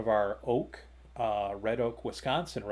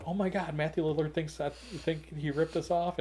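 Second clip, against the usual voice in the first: in shock; 6 semitones higher than usual. Retold or imitated. Vendor realising the actor feels accused, shocked. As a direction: replay the dawning horror, pitched up. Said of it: "I'm in shock".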